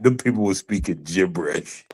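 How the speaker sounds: whispered put-down; whispering. Real, not acted. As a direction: whisper the joke under your breath. Joking put-down.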